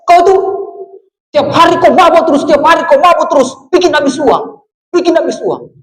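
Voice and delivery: lightly acted nagging complaint; mock angry wife. Papuan wife scolding her drinking husband, mock angry. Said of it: "Dia marah sama dia punya suami".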